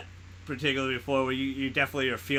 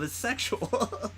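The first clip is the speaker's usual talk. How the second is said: slow mock Mantis; 9 semitones higher, 6 dB quieter, much slower than usual. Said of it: "Wait, no, it's not love".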